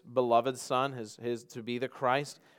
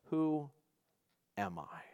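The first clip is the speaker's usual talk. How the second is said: quiet, weighty question; 3 semitones higher, 6 dB quieter, slower than usual. Acted. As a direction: let the question drop softly and hang. Solemn final question as Jesus.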